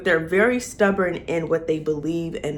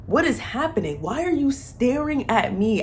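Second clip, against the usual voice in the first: laughing disbelief; 6 semitones higher than usual. Retold or imitated. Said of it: "I felt like I was in the room with them".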